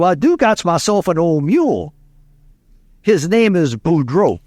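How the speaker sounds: lightly voiced Cajun farmer accent; a touch of Louisiana Cajun storytelling; old Cajun farmer. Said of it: "an old Cajun from Southwest Louisiana, farmer".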